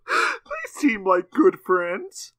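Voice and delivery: grandma voice. Pretend. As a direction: talk like a sweet old grandma. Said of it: "That's my grandma voice".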